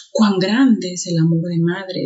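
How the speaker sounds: slow reading leaning on "cuán grande"; teacher's slow, emphatic "cuán". Shown as a demonstration. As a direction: draw out the phrase, stressing "cuán". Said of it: "Ese cuán también es enfático".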